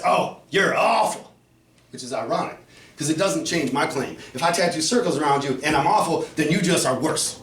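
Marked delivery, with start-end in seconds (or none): 0.0-1.3 mocking the other guy. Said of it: "he says".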